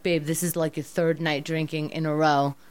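gentle quoting herself. Retold or imitated. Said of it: "I say, like".

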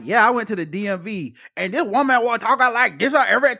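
badly faked Black American accent; bad caricature accent. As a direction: put on an overdone, unconvincing Black American accent. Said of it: "no black people that talk like that".

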